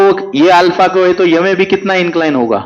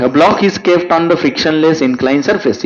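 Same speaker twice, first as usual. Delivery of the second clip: slow dictation reading; much slower than usual. Acted. Reading question aloud slowly.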